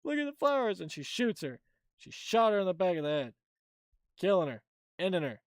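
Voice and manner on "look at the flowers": much higher, lilting coax; mock sing-song soothing. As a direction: croon it like calming a child. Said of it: "she's like".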